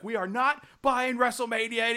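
a hint of an angry caller; mock yelling back. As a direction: imitate an annoyed woman snapping back. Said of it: "she keeps yelling back at them".

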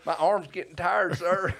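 high, loud, slow laughing plea of the brother; a hammed-up tired whine, laughing through it; laughing mock plea. Brother begs the drinker, laughing and high-pitched.

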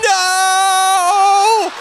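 put-on a little girl shrieking no on the ride; girl yelling. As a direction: scream it in terror. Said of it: "she's yelling".

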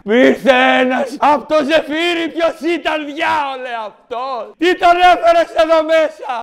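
high, hammed-up TV drama mother; mother shouting in a mock Greek TV series, hammed up; soap-opera mother. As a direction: overplay a scandalised soap mother.

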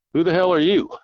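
a hunter shouting at a stranger by his truck; startled shout. Retold or imitated.

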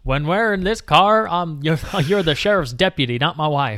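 lightly acted sheriff laying down the rules; imitated sheriff. Sheriff telling his wife she's his deputy, mock-stern.

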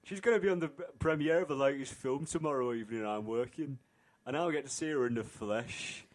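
lightly put-on character voice; a hint of a dopey character accent; Jordan. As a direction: read it in a half-kept character voice. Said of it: "I'm really losing that voice now".

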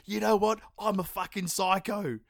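high, loud hammed-up crazed boast; mock psycho crew member. Mocking a movie scientist, hammed-up crazed boast. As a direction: ham up a crew member admitting he's unhinged.

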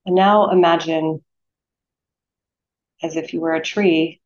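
unhurried meditation guide, long pauses between phrases; guided meditation. Acted. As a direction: lead them gently into stillness, phrase by phrase.

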